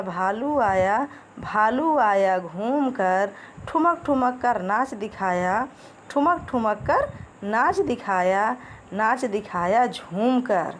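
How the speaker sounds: slow sing-song nursery rhyme chant; rhythmic poem recitation. Acted. Teacher reciting a rhyme to children, slow and sing-song. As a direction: lilt each line slowly for little kids.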